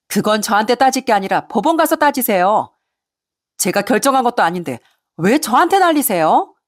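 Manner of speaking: indignant retort. Acted. Daughter-in-law answers her yelling mother-in-law, indignant. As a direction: push back at the caller, voice lifting.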